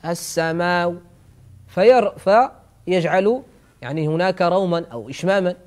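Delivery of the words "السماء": "السماء" with a faint trace of final u; rawm ending. Shown as a demonstration. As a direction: shade the end of "السماء" toward a slight oo. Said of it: "وبعضهم يقوم بروم".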